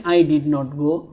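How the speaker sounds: very slow, each word spaced out; slow classroom model sentence; slow drill. Shown as a demonstration. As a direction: say it word by word for learners. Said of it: "நான் போகவில்லை".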